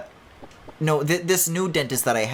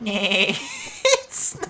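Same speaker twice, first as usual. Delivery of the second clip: loud, high cackling laugh; real high laughter; laughing fit; 14 semitones higher, 3 dB louder than usual. Real, not acted. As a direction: crack up at your own joke. Laughs at own bit.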